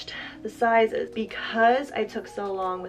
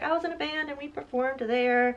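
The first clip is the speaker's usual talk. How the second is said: humble modest; 4 semitones higher than usual. Retold or imitated. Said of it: "He was like".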